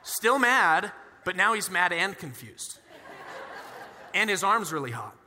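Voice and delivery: words broken by real laughter; laughing while talking. Real, not acted. Preacher telling the congregation about the healed arm, laughing. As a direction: chuckle through the lines.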